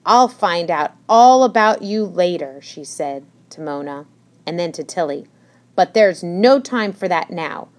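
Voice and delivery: loud flustered matron voice; fussy old hedgehog. Acted. Hedgehog fussing about guests.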